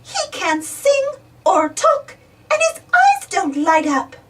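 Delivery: put-on high child voice, a touch whiny; lightly sulking little piglet; sulky Peppa. Peppa listing teddy's faults to Mummy, high and sulky.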